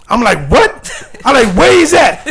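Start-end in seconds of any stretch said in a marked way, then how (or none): 0.5-0.9 sudden high startled question; surprised what. Retold or imitated. DJ hearing his idol is in the club, startled. Surprised DJ hears his idol arrived. 1.6-2.2 high, louder eager question; excited. Retold or imitated. Young DJ asking friend where his idol sits, excited. Excited search for his idol.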